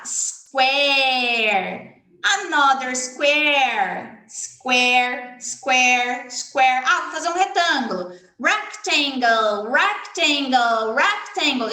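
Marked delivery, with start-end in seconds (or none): 0.0-6.8 naming shapes aloud. Shown as a demonstration. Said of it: "vai falando pra criança ouvir". 8.4-11.7 slow shape naming. Shown as a demonstration. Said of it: "vai falando pra criança ouvir".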